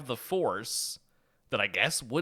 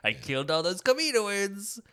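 high, laughing villain; villain Emperor voice; 9 semitones higher, 4 dB louder than usual. Retold or imitated. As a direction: play a giggling, careless tyrant. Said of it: "the Emperor's case".

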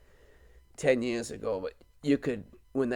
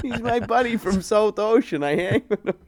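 imitating nephew; 8 semitones higher, 6 dB louder than usual. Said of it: "He goes".

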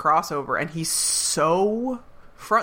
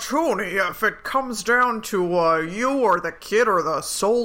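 imitating bad American accent. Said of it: "So he's like".

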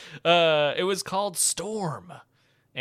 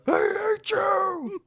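slow, high, shrieking cry; anguished scream; 6 dB louder, much slower than usual. Acted. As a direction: wail it like a betrayed hero. Quoting Anakin's famous scream.

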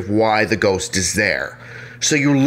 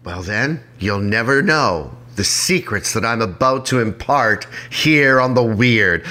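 put-on old movie star voice; slower than usual. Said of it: "I sound like an old movie star".

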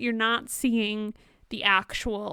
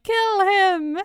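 higher, louder, hammed-up command to kill; mock dramatic order; 9 semitones higher, 7 dB louder than usual. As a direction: bark it like a melodramatic king. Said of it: "a funny way to be like".

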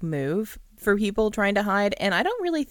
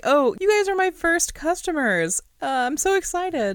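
high, eager, overjoyed voice, much higher; hammed-up thrill at his first customers; mock excited gondolier; 11 semitones higher than usual. Friend imitates the gondolier greeting his first customers, mock excited. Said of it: "he's like".

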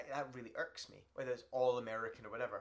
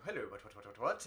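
a touch lower, lightly mocked Brit; caricatured Brit; 4 semitones lower than usual. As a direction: lightly send up a stuffy Brit. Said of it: "these Brits going".

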